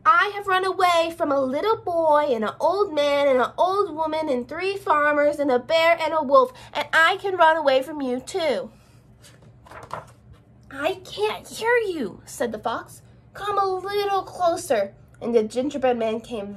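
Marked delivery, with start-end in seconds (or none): 0.1-8.7 calling out. Acted. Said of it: "he called out". 10.7-12.2 sly fox. Acted. Sly fox luring him. 13.3-14.9 higher, slow coaxing fox; sly coaxing fox. Acted. Fox luring closer.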